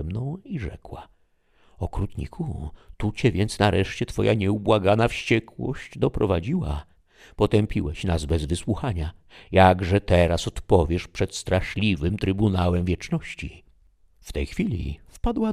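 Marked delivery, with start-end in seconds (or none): 1.8-13.6 higher, accusing lament; bitter reproach. Acted. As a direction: reproach the dead man with rising force. Dama wyrzuca zmarłemu okrucieństwo. (gorzki, oskarżycielski wyrzut)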